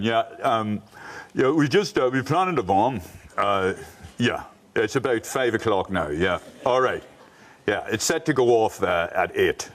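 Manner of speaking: a lightly voiced, chatty bomber ringing in a warning; casual bomber phone call. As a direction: play it like a friendly everyday phone call about a bomb. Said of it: "back in the eighties, it was like".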